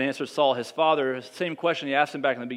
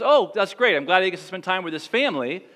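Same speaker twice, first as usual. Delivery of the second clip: hypothetical pleased Saul; 3 semitones higher than usual. Pretend. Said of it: "if Saul reacts and says".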